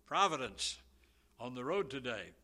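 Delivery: preacher voicing the son telling his father about the road, excited; excited exclaim. A son's breathless report, slowed on the stumbles. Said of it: "he exclaimed".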